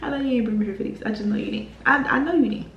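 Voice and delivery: half-crying, disbelieving whine; mock tearful complaint to the friend who dragged her along; exasperated whine. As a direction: whine it like you can't believe she did this. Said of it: "I was so mad".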